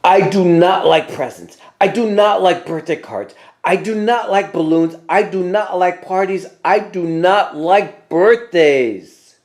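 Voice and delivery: a touch of a roar, slowing at the end; mild mock roar, each line hammered. A narrator's reading.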